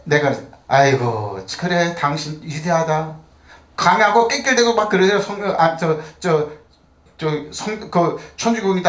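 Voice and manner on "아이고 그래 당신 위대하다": mock sarcastic praise. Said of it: "나 그 소리 듣고 한심해가지고".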